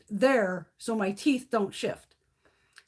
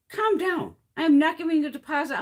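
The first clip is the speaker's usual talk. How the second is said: retold angry retort; 6 semitones higher, 5 dB louder than usual. Quarrel with dental receptionist.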